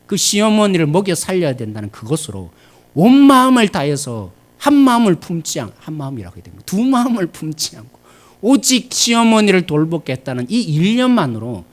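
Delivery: high, loud climax on 온 마음을 다해서; full-force preaching. Acted. Preacher praising Ruth's single heart, loud and high.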